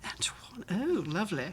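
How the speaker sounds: hushed posh West End English; Jamie Saint Andrews. Acted. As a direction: murmur it softly in a posh West End accent. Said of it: "my posh West End accent".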